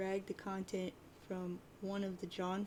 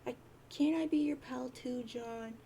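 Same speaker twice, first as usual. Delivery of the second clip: put-on pleading troll girl; 4 semitones higher than usual. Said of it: "And she says".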